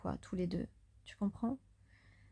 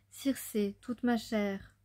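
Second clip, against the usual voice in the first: poem recital; 3 semitones higher, 4 dB louder than usual. Acted. Starts reading the second poem.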